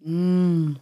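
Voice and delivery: talking around a cough drop; words slurred by a lozenge in the mouth; sucking a throat lozenge. Real, not acted. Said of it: "ich hab grad auch noch so Lutschbonbon im Mund". (mit Lutschbonbon im Mund)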